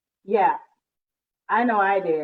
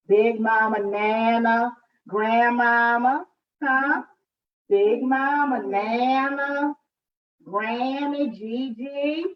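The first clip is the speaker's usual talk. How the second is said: playful drawn-out naming; 3 semitones higher, 3 dB louder, much slower than usual. Real, not acted. Listing grandma names playfully.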